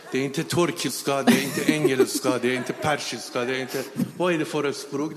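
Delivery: laughing through a baffled list; baffled, half laughing at the strange language; laughing disbelief. Retold or imitated. Confused by tongues, laughing. (skrattande förvirring)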